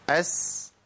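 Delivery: أس ending in a soft, limited hiss; measured running s. Shown as a demonstration. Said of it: "الرخاء ما زادش عن كده".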